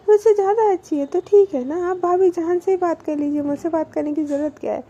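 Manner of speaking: imitating a jealous girlfriend snapping back; jealous anger. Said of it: "अनु को गुस्सा आती है". (जलन भरा नकली गुस्सा, ऊँची और तेज़ आवाज़)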